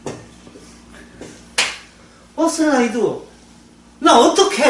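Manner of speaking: ordinary delivery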